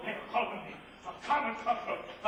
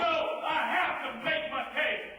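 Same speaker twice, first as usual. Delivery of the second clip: shouted insistence; angry shout; 4 semitones higher than usual. Acted. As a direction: shout him down, defiant. Arguing over leaving.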